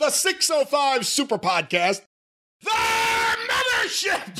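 high, slow voice, failing and giving out. Calling out the podcast name with a big finish: lost voice. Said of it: "I lost my voice".

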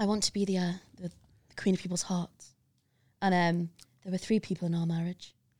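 very breathy put-on voice. Doing a bit that makes Emily cry laughing: breathy put-on voice. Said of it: "Very breathy".

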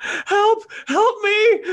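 shrill, very high, loud screaming. Retelling collapsing in Shoppers Drug Mart, the speaker re-enacts screaming for help. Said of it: "I start screaming for help".

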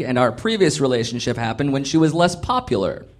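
ordinary delivery

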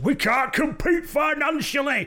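acted-out, very high, drawn-out shout at top of voice. Describing a man flying into the ring, shouting at the top of his voice. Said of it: "he shouts at the top of his voice".

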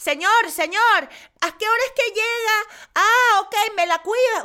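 loud, very high shout. Speaker retells mom yelling at the school bus driver, imitating mom yelling. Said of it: "My mom literally yells at the driver".

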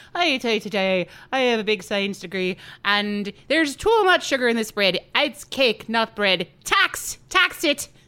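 loud, put-on Irish-accented scientist character voice. Acting out the scientists who came in, Irish scientist impression. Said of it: "That's my impression".

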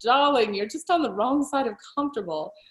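lovely put-on British English accent. Retelling what a dating partner said during a ride: british accent. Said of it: "in his lovely British accent".

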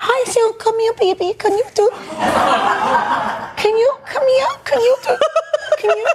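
put-on very high, slow, childish baby talk. Imitating a girlfriend who uses a baby voice when alone, baby voice. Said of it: "She's using a baby voice".

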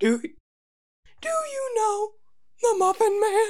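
shrill, very high-pitched voice. Quoting a scene from Shrek, speaker does the gingerbread man: shrill Gingy voice. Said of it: "talking in a shrill voice on purpose".

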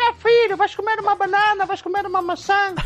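put-on acted grandmotherly voice, high. Showing how you began imitating your grandparents as a child, in a grandma Zumira voice. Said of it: "eu comecei a fazer a voz, a voz dos meus avós".

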